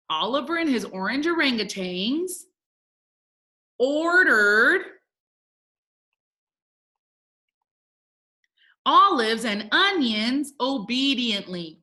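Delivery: word groups with long pauses; slow dictation. Shown as a demonstration. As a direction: read it out slowly while writing along. Teacher reading out while writing.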